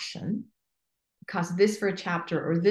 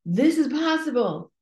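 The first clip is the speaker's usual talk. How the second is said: higher, rising rally cry, slowing on the end; rallying call; 5 semitones higher than usual. Retold or imitated. Coach rallying revolutionaries, high and stirring. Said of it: "We have to say".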